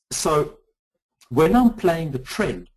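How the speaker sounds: slow, emphatic explaining after being told to slow down; slow right down for the listeners; deliberately slowed down. Real, not acted. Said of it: "I will slow down".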